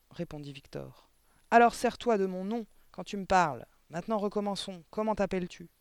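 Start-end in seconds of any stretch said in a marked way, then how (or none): 1.5-5.7 higher, insistent scolding; bullying headmistress. A narrator's reading. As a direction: drill the boy with loud authority. (directrice tyrannique, voix haussée)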